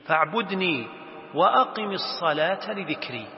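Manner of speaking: measured verse reading; Quran recitation. Acted. God's command to pray read to students, reciting. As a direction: recite with elongated vowels.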